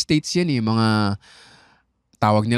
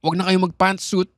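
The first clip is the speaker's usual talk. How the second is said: imitating Bill Burr; 3 semitones higher than usual. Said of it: "ang sinabi ni Bill Burr".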